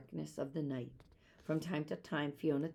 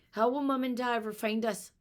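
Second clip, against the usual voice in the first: sobbing; 7 semitones higher, 6 dB louder than usual. Acted. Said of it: "Eilish sobbed again".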